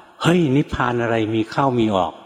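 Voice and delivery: mock rebuke, jumping up on the first word; retold scolding bark. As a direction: imitate a master monk snapping at a student. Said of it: "ท่านตวาดเอา". (เลียนเสียงอาจารย์ตวาดแบบไม่ดังมาก)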